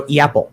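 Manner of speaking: "Yapple" opening on an E sound; Chicago A. Shown as a demonstration. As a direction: glide "Yapple" from E into A. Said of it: "it starts with an E sound".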